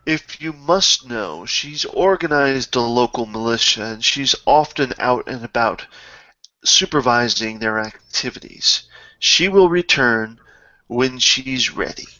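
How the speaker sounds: measured, grudging formal reply; lightly voiced disdainful manservant. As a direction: answer with understated haughty patience.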